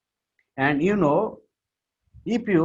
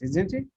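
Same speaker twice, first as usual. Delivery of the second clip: isn't it with the voice swooping much higher; rising tag question; 6 semitones higher than usual. Shown as a demonstration. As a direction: lift isn't it high like a real question. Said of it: "the portion you are raising your voice".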